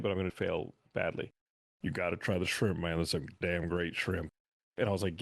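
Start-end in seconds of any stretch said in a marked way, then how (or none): 1.8-4.3 a modest stab at a wrestling star's voice, not a full imitation; Stone Cold Steve Austin. Telling a friend about meeting Stone Cold at a buffet, doing his voice half-heartedly. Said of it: "which I'm gonna try and impersonate".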